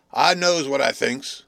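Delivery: slow, loud, muddy-throated voice; slushy voice. A narrator's reading. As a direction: drag it out through a slushy throat. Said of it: "He spoke in a slushy voice".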